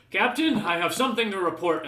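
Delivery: talking through a mouthful; words round a bite of food; mouth full. Acted. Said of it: "says this through a mouthful of food".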